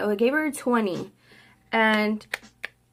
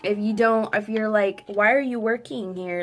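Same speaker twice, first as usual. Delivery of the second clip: annoyed rant. Retold or imitated. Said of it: "I told my brother".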